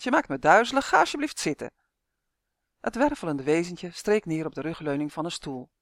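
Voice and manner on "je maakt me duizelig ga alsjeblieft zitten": high, louder pleading; laughing plea. A narrator's reading. Tonia asks the whirling creature to sit, light high-pitched plea. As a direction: beg lightly, pitch lifted. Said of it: "smeekte Tonia lachend".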